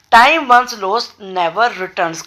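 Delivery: very slow, word by word, dictating Time once lost; slow dictation. Shown as a demonstration. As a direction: spell it out slowly for students to write. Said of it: "dictating the English translation". (बहुत धीमे, शब्द-शब्द बोलकर)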